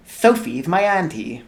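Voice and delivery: lightly voiced sweet little boy; a hint of an angelic toddler; sweet lisping child. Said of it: "in a sweet, lisping voice".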